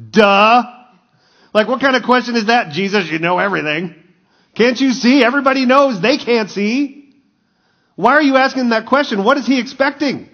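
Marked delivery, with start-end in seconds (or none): 0.1-0.6 loud mocking duh; crowd's scoffing duh. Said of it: "everybody in the crowd is, like, going". 1.5-9.2 high-pitched mock disbelief; incredulous crowd. Crowd incredulous at an obvious question.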